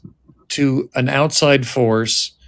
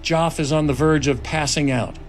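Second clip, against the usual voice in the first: measured screenplay narration; script narration. A narrator's reading. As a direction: read the scene directions steadily. Reads screenplay narration aloud.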